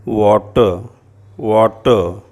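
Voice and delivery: वाटर said loud and deliberate, no r at the end; English water. Shown as a demonstration. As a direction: stress वाटर firmly, dropping the r. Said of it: "इसका क्या उच्चारण हो जाएगा".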